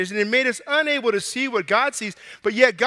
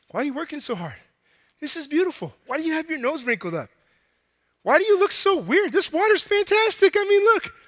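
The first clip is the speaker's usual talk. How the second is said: giddy swimmer; 5 semitones higher than usual. Acted. Oblivious swimmer bragging to God about the lake, giddy and rising. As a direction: gush about the water like it's paradise.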